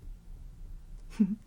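brief, breathy affectionate chuckle; tender, hushed giggle; soft little laugh. Acted. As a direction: give a small quiet laugh. Affectionate laugh while comforting partner.

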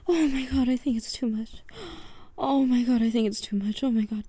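loud, strained cries; loud moaning. Real, not acted. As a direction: cry out, overwhelmed. Overwhelmed, crying out loudly.

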